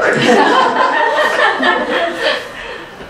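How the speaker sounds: long airy burst of laughter; big laugh. Real, not acted. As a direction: laugh hard at your own punchline. Laughs after his own joke.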